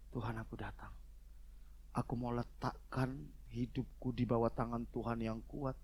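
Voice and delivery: soft, measured petition to God; gently acted morning prayer; modelled humble prayer. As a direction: pray it quietly, one plea after another.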